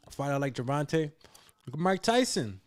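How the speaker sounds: talking while chewing gum; words around a wad of gum. Real, not acted. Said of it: "I'm chewing gum like a".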